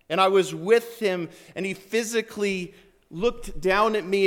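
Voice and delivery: fervent eyewitness preaching; impassioned testimony. Acted. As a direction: testify with mounting wonder and force.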